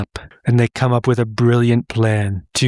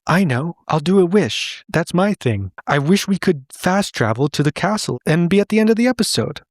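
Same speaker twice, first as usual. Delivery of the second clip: lightly voiced, higher-pitched cartoon bear; eager wish bear; 5 semitones higher than usual. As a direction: pitch it up as a helpful little bear. Wish bear makes a wish, acted.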